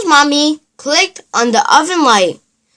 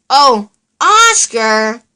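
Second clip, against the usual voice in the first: giggling; slower than usual. Acted. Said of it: "Elmo giggled".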